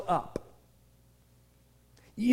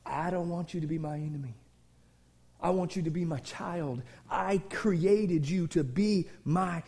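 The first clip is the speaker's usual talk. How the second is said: tender pleading; 3 semitones lower than usual. Acted. God speaking tenderly to his enemy, then firm. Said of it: "it pleases God to come to his enemy and go".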